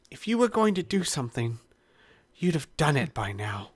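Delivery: high, fast little puppet voice; puppet villain voice. Acted. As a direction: squeak out a puppet's threat. GM voicing puppet villain, redo.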